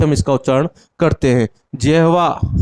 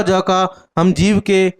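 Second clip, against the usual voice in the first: slow, clear; slower than usual. Shown as a demonstration. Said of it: "किससे करेंगे हम?".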